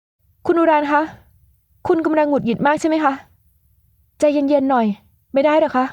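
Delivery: high, sweet mocking voice; teasing young woman. Young woman teasingly calming the angry man, high and sweet. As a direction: soothe him with a teasing smile.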